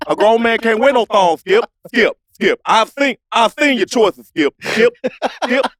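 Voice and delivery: lightly voiced Shannon Sharpe scolding Skip; hammed-up lecturing with repeated skip; Shannon Sharpe impression. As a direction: loose Shannon Sharpe rant. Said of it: "when it comes to Shannon Sharpe".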